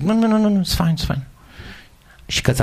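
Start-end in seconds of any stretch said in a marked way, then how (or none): 0.0-1.2 high, rushed no-no-no; frantic denial. Retold or imitated. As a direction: insist it doesn't hurt, voice jumping up. Denies pain to nurse.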